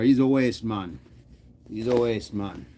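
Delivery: lightly attempted Jamaican accent; somewhat Jamaican accent. Streamer repeating slang from UK shows, somewhat Jamaican accent. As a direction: try the slang with a hint of Jamaican. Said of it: "somewhat Jamaican accent".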